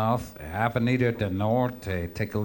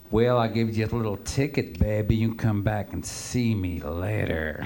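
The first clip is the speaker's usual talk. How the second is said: flirty hip woman; 3 semitones lower than usual. Retold or imitated. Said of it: "And she says".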